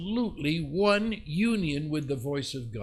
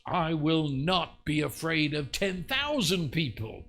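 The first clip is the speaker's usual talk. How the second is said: mild declamatory shout, higher pitched; raised, ringing declaration; retold shout; 4 semitones higher than usual. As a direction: proclaim defiance without fully shouting. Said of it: "Now he shouts".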